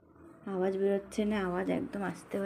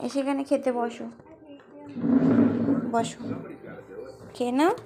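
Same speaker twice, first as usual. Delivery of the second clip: higher, louder call across the house; mother calling her son to eat, raised voice; 3 semitones higher, 6 dB louder than usual. Real, not acted.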